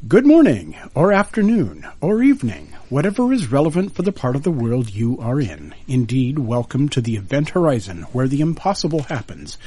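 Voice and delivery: bright, lifted show-opening voice; radio host intro. Acted. Final take of show opening.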